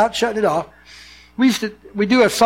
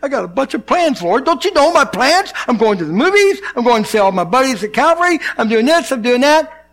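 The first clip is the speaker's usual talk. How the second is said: mock complaint; 3 semitones higher than usual. Pastor playing himself protesting to God, mock whiny. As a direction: list your plans like a put-out child.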